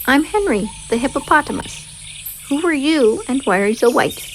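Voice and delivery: a hint of a jolly hippo asking; friendly hippo. Hippo character voice.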